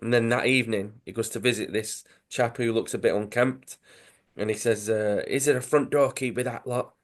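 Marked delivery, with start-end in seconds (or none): 5.3-6.9 lightly voiced London accent; a tentative go at a London accent; attempted accent. Dodgy chap asks about the keys, in a light London accent. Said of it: "I'm doing the accent".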